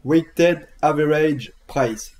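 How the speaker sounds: English with southern French accent. Real, not acted. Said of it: "j'ai accent du sud en plus".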